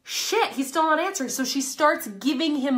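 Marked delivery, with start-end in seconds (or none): 0.0-1.3 mock panicked woman. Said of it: "the woman's like".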